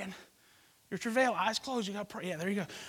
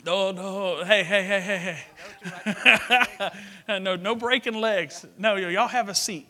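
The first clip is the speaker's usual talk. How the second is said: yelling across the room; 8 dB louder than usual. Real, not acted. Calling out to stop a man climbing.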